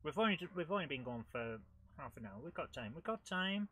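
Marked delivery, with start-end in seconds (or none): 3.0-3.7 higher, lightly voiced little mouse; attempted cartoon mouse. Player spurring himself on, attempted mouse voice. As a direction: lift it into a mouse-like chant. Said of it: "I can't do the mice".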